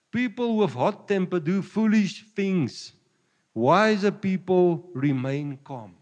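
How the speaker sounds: slow, weighty Bible reading; preacher reading the verse deliberately to the congregation; scripture reading. Acted. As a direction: lay each word down slowly. Reads Bible verse slowly.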